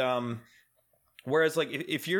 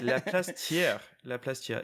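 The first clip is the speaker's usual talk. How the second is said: imitated puzzlement. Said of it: "The woman was completely lost".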